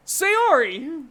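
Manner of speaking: loud, high shout of a name; calling out. Acted. Narrator turning to Sayori for rescue, calling out. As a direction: burst out with the name.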